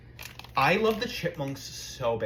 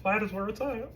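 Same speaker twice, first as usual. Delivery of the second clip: high, lightly voiced Target lady; a hint of Kristen Wiig's Target lady; 8 semitones higher than usual. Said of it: "she was like".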